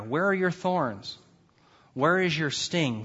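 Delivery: slow, leaning on "Where" each time; slow with "Where" pressed; stress on where. Shown as a demonstration. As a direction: hit "Where" at the start. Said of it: "Notice this, uh, term, "where".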